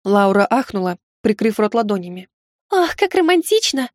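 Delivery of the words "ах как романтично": swooning. Acted. Maid swoons at romance.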